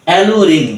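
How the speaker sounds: অ্যালু রিং joined as one word; syllables joined. Shown as a demonstration. Teacher joining the syllables for pupils, অ্যালু রিং clearly enunciated. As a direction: blend অ্যালু and রিং, both clearly sounded. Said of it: "একবারে যখন শব্দটা উচ্চারণ করব".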